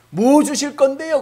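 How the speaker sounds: 높고 크게 따지듯 묻기; 뾰로통하게 되묻듯; 삐딱한 대꾸. Acted. 아브라함의 대꾸 연기. (높고 크게 따지듯 묻는 투)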